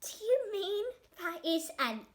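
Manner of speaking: high, loud hopeful ask; a starving beast perking up; excited disbelief; eager question. A narrator's reading. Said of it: "it said".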